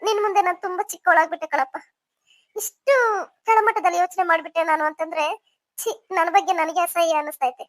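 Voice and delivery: understated crying with remorse; tearful. Acted. Remorseful aunt confesses to nephew, mildly tearful. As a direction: confess shame through light tears. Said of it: "first ನೀವು ಅಳು ನಿಲ್ಸಿ".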